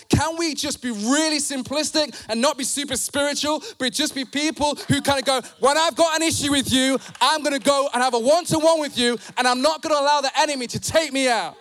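emphatic pulpit delivery; forceful preaching. Real, not acted. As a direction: drive the point home to the congregation.

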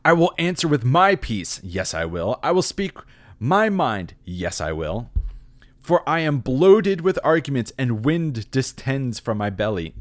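high and loud, full of himself; pompous blowhard. Acted. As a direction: puff up like a young man bursting to speak. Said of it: "This is why he's a blowhard".

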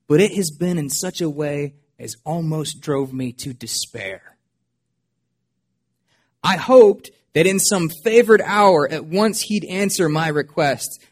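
measured, solemn reading of a hymn poem; poem recitation. Acted. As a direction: read it like a reflective old hymn. Reads Newton's hymn poem aloud.

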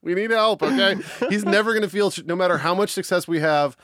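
mock appeal to mom. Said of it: "Look, Sharon".

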